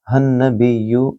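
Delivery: हन नबिय्यु joined smoothly, nothing lengthened. Shown as a demonstration. Teacher showing how to join the words, smooth linking. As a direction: link हन नबिय्यु without stretching. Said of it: "कुछ भी लंबा नहीं करेंगे बल्कि इसको सही तरीके से मिलाकर पढ़ेंगे".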